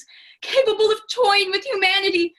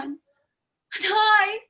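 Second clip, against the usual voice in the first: mock fear, slowed right down; frightened; 5 semitones higher, much slower than usual. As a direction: drag out the words like a nervous assistant. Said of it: "I am frightened".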